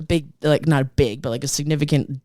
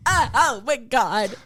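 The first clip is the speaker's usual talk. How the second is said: dismayed groan; 8 semitones higher, much slower than usual. Retold or imitated. Seeing smashed window first time.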